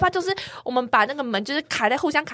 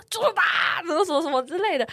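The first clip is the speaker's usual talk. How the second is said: angry accusation; 7 semitones higher than usual. Retold or imitated. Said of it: "很用力地指着我说".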